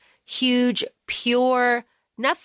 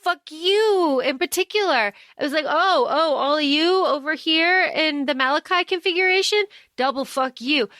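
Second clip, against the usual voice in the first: gleeful taunt; 5 semitones higher than usual. Retold or imitated. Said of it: "It's just like".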